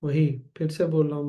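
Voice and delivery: normal talking voice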